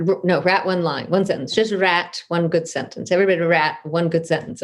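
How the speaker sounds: lightly imitated South African teacher, "rat" for write; South African accent. South African writer setting her workshop a task, imitated accent. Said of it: "in her South African voice".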